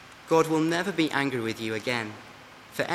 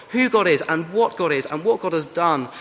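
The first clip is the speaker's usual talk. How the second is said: rising fervour; 3 semitones higher, 5 dB louder than usual. Real, not acted. Building rhetorical list.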